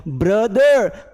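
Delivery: "ब्रदर" slow, ending in uh without r; non-rhotic brother. Shown as a demonstration. Teacher demonstrating "brother" without r. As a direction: draw out "brother" with no r. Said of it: "automatically अ निकलेगा".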